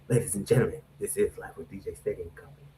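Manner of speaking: soft radio voice. Acted. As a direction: purr the show name like late-night radio. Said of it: "I have a softer approach when I wear the glasses".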